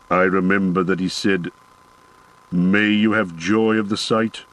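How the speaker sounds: lightly voiced dwarf, solemn and sad; a hint of a grave old dwarf recalling a friend; dwarf Gimli remembering.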